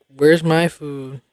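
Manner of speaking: mock outrage climbing on the last question; mad, angry cat. Voicing the cat left out of dinner, mock angry. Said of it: "looking mad angry".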